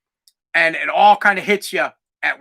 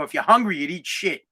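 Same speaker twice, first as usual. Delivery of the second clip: flat, emotionless, dropping away at the end; deadpan; 2 semitones lower, 4 dB quieter than usual. Retold or imitated. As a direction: say it with no feeling at all. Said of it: "deadpan, no emotion".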